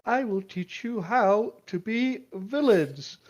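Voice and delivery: a playful evil mastermind vow; mock villain.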